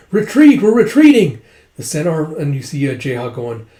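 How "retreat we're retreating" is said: loud, high battlefield shout; retold shouted order; acted retreat call. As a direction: call out for all troops to hear.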